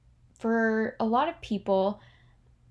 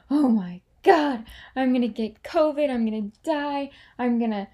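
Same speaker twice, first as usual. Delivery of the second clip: panicky thought spiral; 3 semitones higher, 5 dB louder than usual. Retold or imitated.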